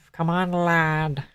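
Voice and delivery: drawn-out British lad, said quietly; hushed, slow British accent; mock British accent.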